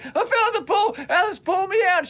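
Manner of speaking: put-on high kid voice explaining; a little boy reporting the accident; eight-year-old voice. Boy telling his sister what happened, high kid voice. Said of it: "doing my best eight-year-old impression".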